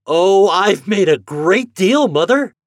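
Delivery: put-on a farm boy's delighted announcement; boy bursting with news. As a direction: blurt out your big news. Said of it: "Homer's freckled face glowed with satisfaction".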